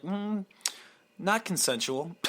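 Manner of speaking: high, drawn-out mock objection; mock protest. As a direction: play it offended and prim. Mock dog-kiss reaction quote.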